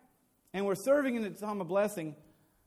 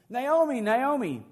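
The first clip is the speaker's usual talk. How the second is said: calling out a name, higher and louder; excited calling; 4 semitones higher, 6 dB louder, slower than usual. Acted. Townswomen greeting returning Naomi, excited calling out. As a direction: hail her from across the street.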